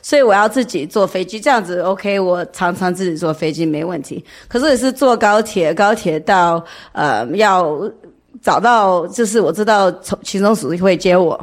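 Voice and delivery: non-native Mandarin, halting and careful; foreigner speaking mandarin. Real, not acted. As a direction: speak Mandarin as a learner, searching for words. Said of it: "我中文不太好".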